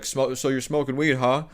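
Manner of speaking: a hint of a knowing dad; lightly voiced dad who knows the smell. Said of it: "he's like".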